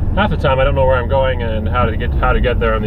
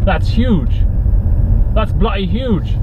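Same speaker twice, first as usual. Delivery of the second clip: put-on a weak stab at a British accent, pitched higher; mock British buddy, higher and slower; failed British accent; 6 semitones higher, slower than usual. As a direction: try for a British accent and miss. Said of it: "I can't do a British accent".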